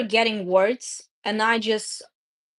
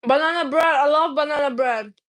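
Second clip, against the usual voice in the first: excited; 4 semitones higher, 3 dB louder than usual. Real, not acted. Excited about food while eating.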